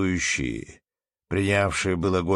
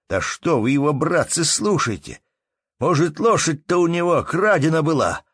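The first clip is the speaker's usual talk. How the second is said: heated denial; 6 semitones higher, 5 dB louder than usual. Acted. Innkeeper deflecting blame, heated.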